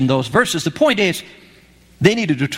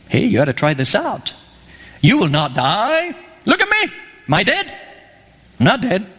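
coaxing serpent; 3 semitones higher than usual. Acted. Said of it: "serpent talking and saying".

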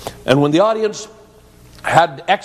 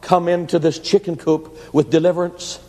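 prayer. A narrator's reading. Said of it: "began to pray".

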